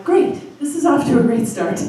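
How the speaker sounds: high, punched GREAT, then a bright-side quip; mock enthusiasm. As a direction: put on cheer about a bad start.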